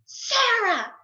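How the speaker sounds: loud, high call across the house; retold yell. Governor calling his wife across the big house, loud yell. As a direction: shout her name from another room. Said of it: "and he yells".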